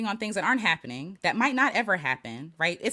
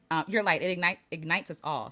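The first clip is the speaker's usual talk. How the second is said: stuttering; 3 semitones lower than usual. Real, not acted. Reading a viewer's comment aloud, stuttering. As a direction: stumble and restart while reading. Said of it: "Sorry, I'm stuttering".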